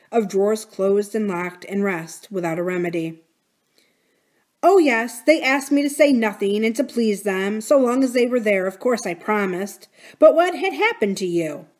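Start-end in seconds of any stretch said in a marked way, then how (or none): 4.7-11.7 a hint of a fussy old servant; Mrs Grose's voice.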